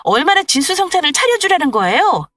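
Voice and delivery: exasperated daughter-in-law. Acted. Daughter-in-law defends her dinner to mother-in-law, exasperated. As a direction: protest the unfair nagging.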